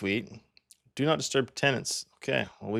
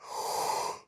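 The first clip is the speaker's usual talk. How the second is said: yawn; 8 dB quieter than usual. Real, not acted. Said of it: "Sorry, I'm yawning".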